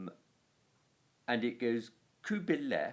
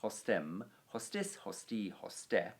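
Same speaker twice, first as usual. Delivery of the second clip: brisk run-through of a Latin declension; quick recitation; 5 dB quieter than usual. Shown as a demonstration. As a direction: rattle through the noun forms briskly. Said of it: "we'll whack through it singular quickly".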